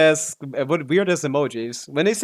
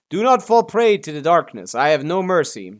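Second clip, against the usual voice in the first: high, loud, brooding edgelord delivery; hammed-up dark warrior line, mocking the voice line; mock edgy game-character voice; edgy dramatic hero; 4 semitones higher, 6 dB louder than usual. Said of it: "Who the fuck talks like this?".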